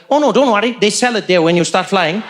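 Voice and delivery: put-on deadpan Indian-accented seatmate; serious Indian accent. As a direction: reassure him in earnest, with an Indian accent. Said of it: "he said it so seriously".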